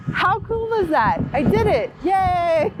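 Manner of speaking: high, excited little celebration; delighted cheer. Real, not acted. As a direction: cheer your own small victory. Celebrating after managing the step.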